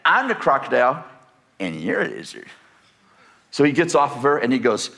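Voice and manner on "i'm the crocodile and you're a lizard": put-on bossy little girl. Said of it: "And she goes".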